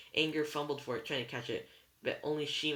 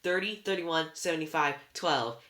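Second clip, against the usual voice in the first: loud wail, pitch sinking to the end; 4 semitones higher, 6 dB louder than usual. A narrator's reading. Anger repeating all she can tell, wailing. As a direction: wail the numbers, falling away. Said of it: "Anger wailed".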